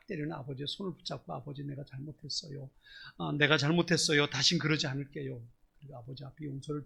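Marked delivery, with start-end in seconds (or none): 1.3-2.7 soft, quiet plea to the father; pleading son. Retold or imitated. Son quietly begging the father who beats himself. 3.2-5.4 louder, urgent begging; louder plea. Retold or imitated. Son pleading louder so the father stops beating himself.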